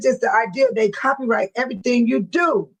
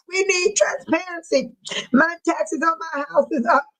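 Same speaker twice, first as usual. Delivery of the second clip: higher-pitched complaining quote; Michael Smith; 5 semitones higher than usual. Retold or imitated. Man at a board meeting demanding transparency, higher-pitched imitation. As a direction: raise the pitch, mimicking a meeting speaker. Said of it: "He was talking about".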